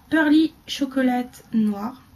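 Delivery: names said with a slow, put-on English accent. Shown as a demonstration. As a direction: read the brand name the English way, slowly. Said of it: "Vous noterez l'accent".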